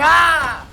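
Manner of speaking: imitating a wordless scream; mock scream. Mimicking the villagers in the game, a mock scream. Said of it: "jumping around and screaming".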